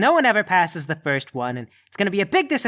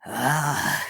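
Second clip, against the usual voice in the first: growl; 5 semitones lower, 4 dB quieter than usual. Acted. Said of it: "and growls".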